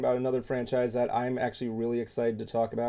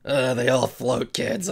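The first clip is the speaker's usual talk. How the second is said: clown voice; slower than usual. Retold or imitated. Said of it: "I can't do Krusty's voice".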